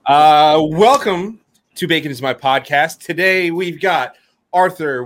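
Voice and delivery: loud radio host intro. Pretend. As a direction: announce it like a DJ on air. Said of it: "Radio voice".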